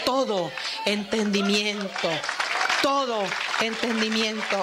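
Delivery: proclamado fuerte, palabra por palabra; énfasis de predicadora. Real, not acted. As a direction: recalca cada palabra con fuerza. Repite con énfasis al predicar. (prédica enfática, en voz alta y pausada)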